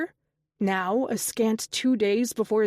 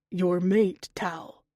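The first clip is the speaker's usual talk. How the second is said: gentle; slower than usual. Acted. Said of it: "Nico said gently".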